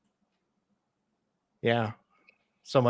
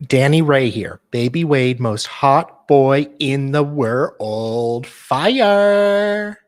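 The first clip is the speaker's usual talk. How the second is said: hyped-up reading; 9 dB louder, much slower than usual. Acted. Reading out a donor's message.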